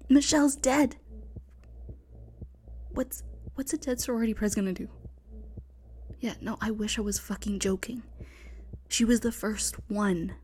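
hushed frightened whispering; tense whisper. Acted. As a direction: whisper urgently, hiding from killer.

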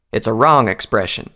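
firm correction; insistent. Acted. Applejack corrects a mocking recruit, mildly insistent. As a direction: insist with mild force. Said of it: "Applejack insisted".

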